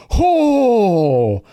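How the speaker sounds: loud, high shocked Oh; the whole table reacting in shock; shocked group gasp. Everyone reacts to husbands die.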